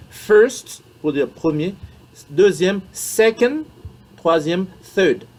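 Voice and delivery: first, second, third spoken high and clear; ordinal exceptions drilled. Shown as a demonstration. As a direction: drill each word for the class. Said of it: "ça c'est une exception".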